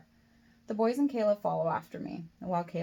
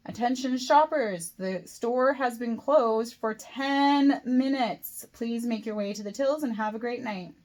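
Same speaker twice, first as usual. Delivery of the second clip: louder, higher announcement, very slow and emphatic; increasingly angry; 5 semitones higher, 6 dB louder, slower than usual. A narrator's reading. Supervisor announcing to lingering shoppers once more, getting angrier. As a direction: drag out each word in mounting irritation. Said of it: "Her voice is getting angrier and angrier".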